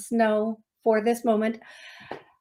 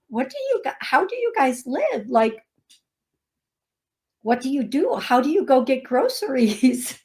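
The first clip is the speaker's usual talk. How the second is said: baffled questioning; 2 semitones higher than usual. Retold or imitated. Florida woman asking northerners how they live, baffled. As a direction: ask it in mock bewilderment, voice leaping up. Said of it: "woman in Florida who was asking".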